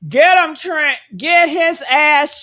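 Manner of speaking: loud egging on, slow on the second line; loud cheering. Real, not acted. Fan cheering the TMZ reporter on, loud and fired up. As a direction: cheer him on like he's in a fight.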